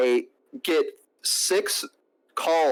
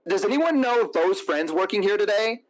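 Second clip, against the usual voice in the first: higher-pitched mimicry of her question; imitated searching date; 6 semitones higher than usual. Date asking staff for his friend, high imitated voice. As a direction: put on her high, inquiring voice. Acting the woman asking again.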